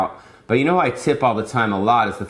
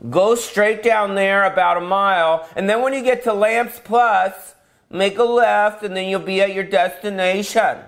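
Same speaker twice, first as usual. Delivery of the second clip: higher, prim navigation voice; GPS lady voice; 7 semitones higher than usual. Retold or imitated. Car navigation voice giving directions, higher and prim. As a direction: read the route like a polite sat-nav woman. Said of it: "the girl's voice comes on".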